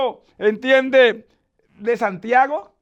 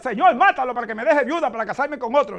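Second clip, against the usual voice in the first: mock prayer, laughing. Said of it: "no ores".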